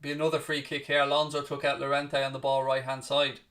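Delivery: steady play-by-play, calling each pass as it happens; live commentary. Acted. Calling the Atletico v Chelsea match for viewers, play-by-play commentary. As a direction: talk the match through like a broadcast caller.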